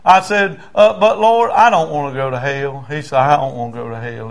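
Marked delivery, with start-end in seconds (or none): 1.0-2.8 raised opening, easing down; leading a prayer. Retold or imitated. Preacher leads prayer for repeating. 3.2-4.3 mild imitation of a crying man; subdued, understated repeat; tearful repetition. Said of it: "He's crying".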